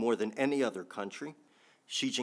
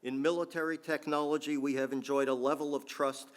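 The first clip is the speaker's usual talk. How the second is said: quoting Putin; 5 semitones higher than usual. Retold or imitated. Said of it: "I don't do a good Putin accent".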